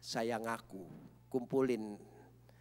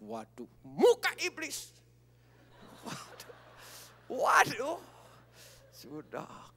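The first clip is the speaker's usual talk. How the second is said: exclaiming; 8 semitones higher, slower than usual. Real, not acted. Describing wife's fury.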